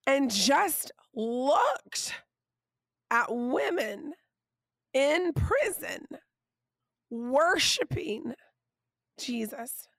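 losing her voice, hoarse and strained. Real, not acted. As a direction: speak through a worn-out, hoarse voice. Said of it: "That's why I have no voice".

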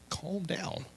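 hushed, breathy calm down; whispered calm down. Retold or imitated. Calming an angry coworker, whispered. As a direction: soothe him in a whisper.

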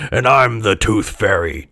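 hearty acted laugh into scornful line; laughing mockery in a put-on cop voice; mocking chortle. A narrator's reading. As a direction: chortle like a disbelieving policeman. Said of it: "chortled the policeman".

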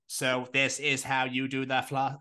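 slow, even robot voice. Pretend. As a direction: talk like a robot. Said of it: "why do I sound like a robot?".

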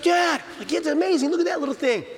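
put-on very high, wonder-struck child; a son marveling at a bear cub; amazed kid voice.

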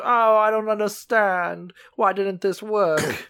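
high, simple-minded confused voice; Rita. Acted. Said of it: "like, Rita from Arrested Development".

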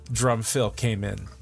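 ordinary talk, nothing marked

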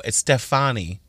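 "Stefani" with stress on the middle syllable; pronounced like a singer's surname. Retold or imitated. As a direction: say "Stefani" as stef-AH-nee. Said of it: "Like the singer".

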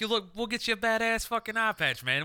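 mock hype. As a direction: hype him up over the patch. Hyped reassurance quote.

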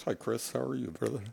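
normal talking voice

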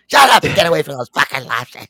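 mild mock dad yell; imitating dad yelling. Son imitating his dad yelling at him, mild mock yell. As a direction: shoo the kid off. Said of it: "He's fucking yelling at me".

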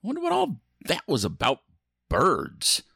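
lightly theatrical ride host; spooky ride narrator. Acted. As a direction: welcome riders with playful menace.

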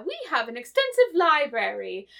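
lightly put-on British robot hostess; British accent. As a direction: recite it with a hint of British accent. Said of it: "say this in a British accent".

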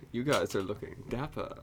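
lightly put-on old British lady; mock-British, soft r on "dapper"; old British accent. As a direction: quote her with a hint of British. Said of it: "sound like an old British".

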